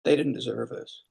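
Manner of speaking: held-back emotion for the workers; moved, speaking of fired staff; real emotion. Real, not acted. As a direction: voice thick with real feeling. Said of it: "I get emotional about it".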